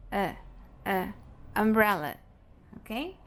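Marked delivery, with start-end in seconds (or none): 0.1-1.6 short lazy "a" as uh; isolated schwa, "a" with a slack mouth; schwa sound. Shown as a demonstration. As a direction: say "a" as an unstressed neutral uh. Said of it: "É o som a".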